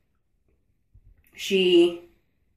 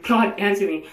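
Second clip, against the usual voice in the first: retold angry demand to God, a touch raised; 3 semitones higher than usual. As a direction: demand an answer with mild, re-enacted anger. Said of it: "this is how I was talking".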